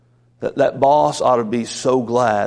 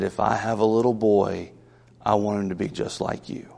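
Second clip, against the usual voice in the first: softer, hushed and slowed, a teacher's quiet praise; low tone of voice; 3 semitones lower, 5 dB quieter than usual. Retold or imitated. Eighth grade teacher praising the pastor as a boy, hushed and tender. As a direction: lean in and murmur it close. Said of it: "in a very low tone of voice".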